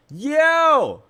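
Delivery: loud, high mock yell; imitated scream. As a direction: holler it like the kid across the court. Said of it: "somebody starts screaming".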